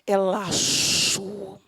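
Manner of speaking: ordinary delivery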